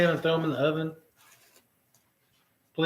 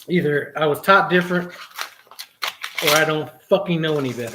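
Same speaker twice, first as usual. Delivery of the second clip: louder, firm re-enactment; demo of retort; 4 dB louder than usual. Shown as a demonstration. Showing viewers how he told the trainee off, firm and louder. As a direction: say it back as I said it. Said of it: "That's exactly how I said it".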